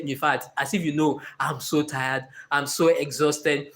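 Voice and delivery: mildly acting worn out and low; tired whine. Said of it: "To distracted Kayode, I say".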